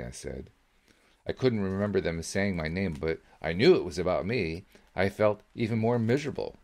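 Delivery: plain reading voice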